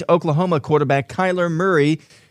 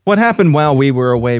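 announcer voice; 6 dB louder, faster than usual. Acted. Segment title announcement.

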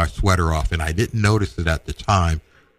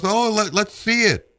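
imitating dad. Dad asks to see watch.

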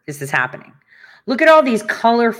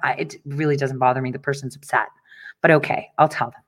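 calm voice; 7 semitones lower, 6 dB quieter, faster than usual. Retold or imitated. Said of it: "I was the calm voice".

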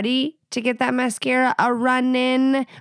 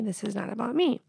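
"This is not about me" said again much softer, to herself; quieter repeat; 7 dB quieter than usual. Real, not acted. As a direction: softly repeat "This is not about me" as a self-reminder. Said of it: "It's not making this about me".

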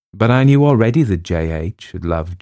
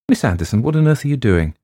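startled rise, louder and higher; 6 semitones higher, 5 dB louder, faster than usual. Acted. Headmistress catching the teacher at the desk, startled. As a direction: demand what on earth she is doing.

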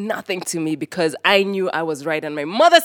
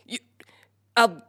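mother's threat; 5 semitones higher than usual. Retold or imitated. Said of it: "She gives the threat she always give us".

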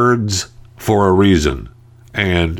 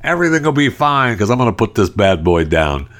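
reassuring pilot; 5 semitones higher than usual. Retold or imitated. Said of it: "We just want them to say".

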